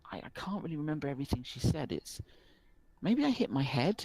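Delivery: put-on a worried village boy pleading for help; young rural boy, worried. Rural boy explains his lost sister to the barkeep.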